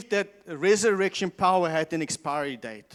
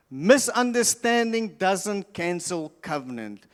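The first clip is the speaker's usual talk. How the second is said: slower, measured repeat; slower echo; slower than usual. Shown as a demonstration. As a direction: spell it out slowly for notes. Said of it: "repeated key line".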